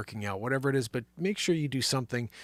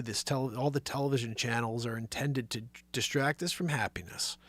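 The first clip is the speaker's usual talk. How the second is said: whisper; 2 semitones lower, 6 dB quieter than usual. Real, not acted. Host lowers voice on conspiracy.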